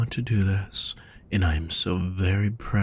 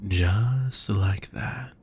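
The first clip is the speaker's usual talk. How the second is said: soothing; much slower than usual. Acted. Coaching slow calming breaths.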